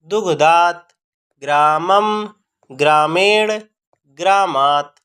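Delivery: each word spaced and said distinctly; careful recitation. Shown as a demonstration. Teacher models the correct pronunciation for students, careful recitation. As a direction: recite like a pronunciation drill, one word at a time. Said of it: "का शुद्ध उच्चारण करें".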